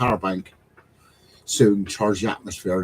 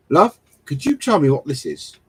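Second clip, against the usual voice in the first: helpless husband calling; 4 semitones higher, 5 dB louder than usual. Retold or imitated. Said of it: "I just scream for the wife".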